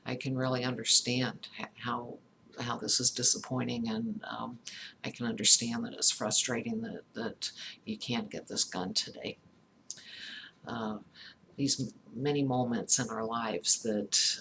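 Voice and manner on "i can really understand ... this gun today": empathic response. Shown as a demonstration. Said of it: "say something like".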